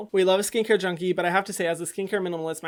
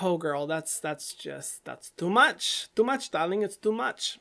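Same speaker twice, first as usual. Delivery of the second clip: sassy; slower than usual. Retold or imitated. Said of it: "I kinda would have been like".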